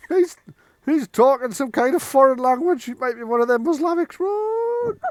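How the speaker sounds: high-pitched, loud yokel voice; high, comic thug voice; alarmed gang member. Acted. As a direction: squeal it in panic, climbing to "Run!". Game master voices heckling gang member.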